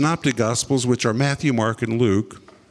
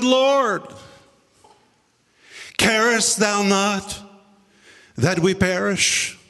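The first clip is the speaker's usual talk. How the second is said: slow confident address; 4 semitones higher, slower than usual. Acted. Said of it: "one gospel writer says".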